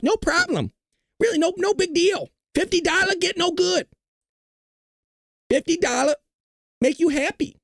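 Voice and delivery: put-on high-pitched caricatured Asian accent; mock Asian accent. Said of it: "that Asian accent just came out".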